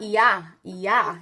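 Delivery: yeah for here, a lilting "ee-ah"; sing-song yeah, falling into an open "ah"; sing-songy Geordie. Shown as a demonstration. Teacher showing how Geordies turn out here, sing-songy yeah. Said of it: "It's like sing-songy".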